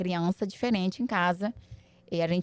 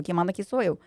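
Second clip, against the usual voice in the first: ordinary talk, nothing marked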